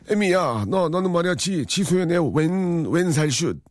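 just lean into the mother-in-law call; mild mother-in-law read; lightly voiced mother-in-law. Listener poem as mother-in-law.

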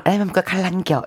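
gentle Daegu lilt with a falling ending; 대구 사투리. Shown as a demonstration. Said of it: "대구 쪽은". (부드러운 대구 사투리로)

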